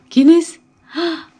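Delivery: high, loud peekaboo call; spring the surprise on the baby; playful peekaboo. Acted. Mom playing peekaboo with baby, high excited call.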